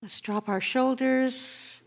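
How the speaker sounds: gentle prayerful guiding; guided meditation. Acted. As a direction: ease the congregation into stillness.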